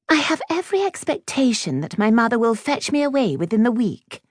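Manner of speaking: high, haughty interruption; prim schoolgirl superiority; snobbish Clementine. A narrator's reading. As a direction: cut in with lofty, high-pitched certainty.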